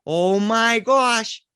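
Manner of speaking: put-on kids gasping.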